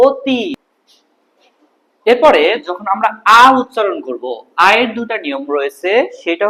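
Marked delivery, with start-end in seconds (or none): 0.1-0.4 অতি with its last vowel left open; no stop at end. Shown as a demonstration. Teacher contrasts syllables, অতি ending on a held vowel. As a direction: let the end of অতি run on. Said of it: "আমরা থেমে যাচ্ছি না".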